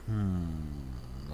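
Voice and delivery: skeptical hmm. Retold or imitated. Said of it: "a solid look like".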